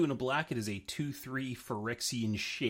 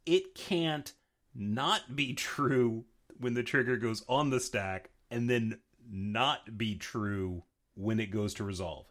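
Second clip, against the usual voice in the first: usual speaking voice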